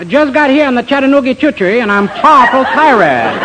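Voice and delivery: overdone fake Southern charm; fake Southern accent. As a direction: play a phony Southern gentleman. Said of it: "pardon by me the southern accent".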